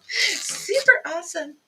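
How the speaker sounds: put-on high, slow valley girl gush. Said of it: "Sound like a valley girl".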